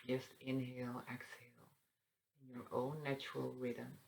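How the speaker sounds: soft, unhurried meditation guide; hushed instructions with long pauses; guided meditation. Acted. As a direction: guide them gently into breathing. Leads a breathing meditation.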